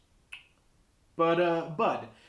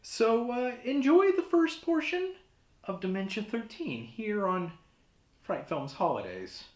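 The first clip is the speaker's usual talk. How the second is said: rattled, voice pitched up high; nervous; 8 semitones higher than usual. Acted. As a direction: shaken host pushing on nervously. Rattled by death threat.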